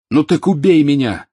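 high, loud breathless shout. A narrator's reading. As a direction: gasp it out in fury. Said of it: "задыхаясь, сказал Гарри".

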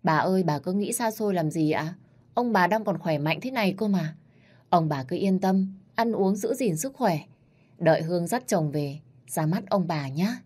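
wheedling. Acted. Granddaughter hugging grandma, wheedling sweetly. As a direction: coax grandma like a spoiled child. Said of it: "cất giọng mè nheo".

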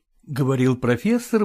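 ordinary delivery, nothing marked

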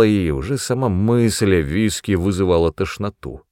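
ordinary delivery

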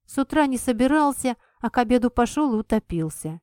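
grumbling. Acted. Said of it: "ворчливо отозвалась я".

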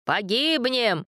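high, slow despairing cry; shouting over wind. A narrator's reading. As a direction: yell it over the roaring wind. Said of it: "закричал старец сквозь ветер".

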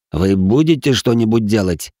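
through gritted teeth. Acted. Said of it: "процедил Макс сквозь зубы".

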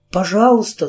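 a high pained little squeak. A narrator's reading. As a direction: squeak it out in discomfort. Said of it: "страдальчески пискнула Кэрри".

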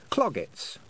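said aloud. A narrator's reading. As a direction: read out Cloggets like a spell. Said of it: "she said aloud".

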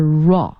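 raw as the joined r plus all sound; linking sound. Shown as a demonstration. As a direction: sound out the link clearly as raw. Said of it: "这种连读是raw". (连读音 raw)

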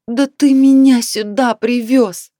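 slow, loud, high reproach; angry accusation. A narrator's reading. Wife blaming husband for the trip, loud and slow. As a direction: throw the blame at him. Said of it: "заявила Наталья Васильевна".

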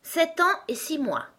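put-on high child's voice; little-girl Alice. A narrator's reading. (petite voix de fillette)

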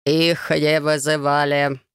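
monotone guard. A narrator's reading. Guard repeats refusal.

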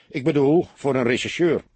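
somewhat distrustful. A narrator's reading. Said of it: "zei hij wat wantrouwend". (licht wantrouwend, met hogere stem)

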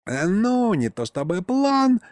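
нерешительно. Acted. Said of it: "нерешительно начал дед".

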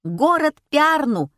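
high, loud cry; shouted answer. A narrator's reading. Heroine giving the audience her answer, shouting. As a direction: shout it out to the hall. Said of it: "крикнула я".

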